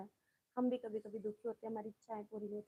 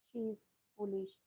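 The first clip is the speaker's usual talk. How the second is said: slow model sentence; much slower than usual. Shown as a demonstration. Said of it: "ऐसे भी तो बोल सकते हैं".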